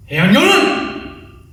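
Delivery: loud drawn-out call of the kata name; announcing the kata. Shown as a demonstration. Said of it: "I'm gonna count it out for you guys".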